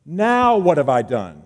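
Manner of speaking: hammed-up sulky younger sibling; whiny little brother. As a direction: play the wronged kid brother. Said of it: "angry little brother, I've been abused response".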